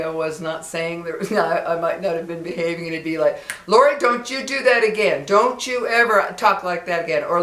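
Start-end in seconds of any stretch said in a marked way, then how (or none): 3.7-7.2 put-on stern, louder scolding of a child; sharp warning to a naughty girl; a neighbor telling off young Lori.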